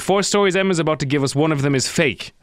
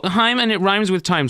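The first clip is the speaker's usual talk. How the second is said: lightly mocking, higher-pitched explanation; smug corrector; 4 semitones higher than usual. Host mimicking the band's explanation, mildly smug. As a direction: mimic a know-it-all spelling it out. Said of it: "'Cause they go".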